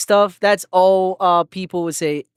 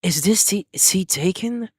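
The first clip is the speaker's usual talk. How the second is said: mock boyfriend ASMR; 2 semitones lower than usual. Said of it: "my B F E".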